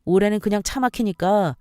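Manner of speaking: lightly voiced fed-up husband; irritated husband. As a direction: complain dismissively with a touch of annoyance. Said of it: "남편이 하는 말이 뭔 줄 아세요?".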